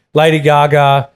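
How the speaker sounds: light Singaporean accent impression; a hint of a Singaporean taxi driver; half-hearted Singaporean English. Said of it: "I can't do the accent".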